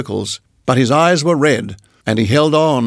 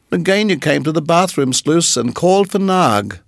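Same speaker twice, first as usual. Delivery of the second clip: higher, excited chirpy bird; little bird voice; 4 semitones higher than usual. Acted. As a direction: chatter proudly like a small bird. Darzee voice.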